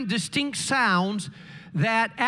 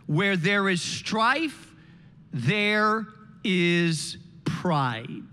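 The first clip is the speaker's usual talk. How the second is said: weighty proverb; 2 semitones lower, much slower than usual. Acted. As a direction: drag there is pride out to the end.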